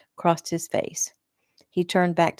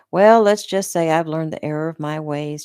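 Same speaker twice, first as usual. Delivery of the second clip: mocking; 5 dB louder than usual. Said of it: "a mocking smile on his face".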